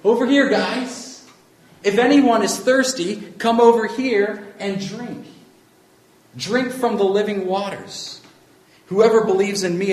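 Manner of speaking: high, loud calling across the crowd; crying out loud. Retold or imitated. Jesus calling the festival crowd to drink, loud cry. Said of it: "Jesus cries out in a loud voice".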